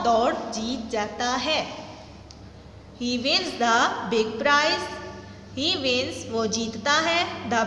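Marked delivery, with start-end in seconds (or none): 3.0-4.9 very slow, every word spaced out for the class; slow dictation read. Shown as a demonstration. Teacher reading a sentence to students, very slow and deliberate. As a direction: read it slowly, word by word, so students can follow. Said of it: "teacher reads the sentence aloud".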